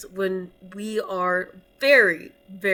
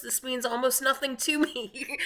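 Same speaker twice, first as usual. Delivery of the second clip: laughing; 5 semitones higher than usual. Real, not acted. Laughing admission about the pope.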